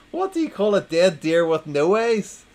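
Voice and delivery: announcing the next riddle with gusto; loud joke setup. Acted. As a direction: call it out loudly.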